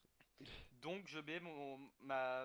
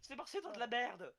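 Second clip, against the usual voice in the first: tag; 8 semitones higher, 6 dB louder than usual. Acted. Acted bickering over dung.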